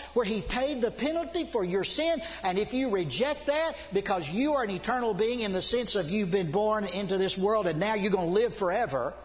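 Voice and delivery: insistent sermon warning, building in pitch; urgent preaching. Real, not acted. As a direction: press the warning on the congregation.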